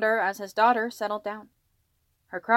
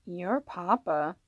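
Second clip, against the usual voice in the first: put-on slow, drawn-out baby address; talking to a baby; much slower than usual. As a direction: lightly coo at a crying baby. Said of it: "continued to talk to the crying baby".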